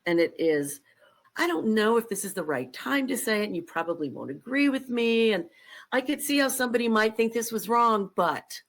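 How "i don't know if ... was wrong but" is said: apologetic, hedging lead-in; a nervous disclaimer run-up before the point; hedging preamble. Shown as a demonstration. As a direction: pile on the caveats before speaking. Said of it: "a prophylactic approach to making a statement".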